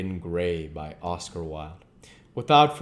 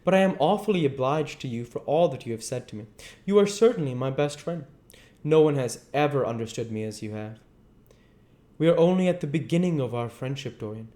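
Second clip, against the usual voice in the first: raised, lively character voices; character dialogue; 6 semitones higher, 3 dB louder, faster than usual. A narrator's reading. Reader voicing Henry and Dorian in high dialogue.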